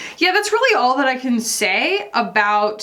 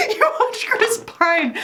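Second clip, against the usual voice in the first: laughing; slower than usual. Real, not acted. Laughing at the Chris Pine clip.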